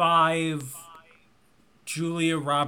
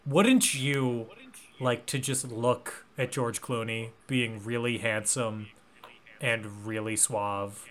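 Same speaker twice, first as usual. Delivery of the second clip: soft sultry pitch; 5 semitones lower, 7 dB quieter than usual. Retold or imitated. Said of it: "cracked into the moviegoer's mind was".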